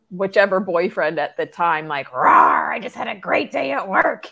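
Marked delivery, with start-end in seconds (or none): 2.1-4.3 super excited. Retold or imitated. Woman coming home to boyfriend from a great workday, super excited. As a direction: burst in loudly, roaring with excitement. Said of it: "super excited".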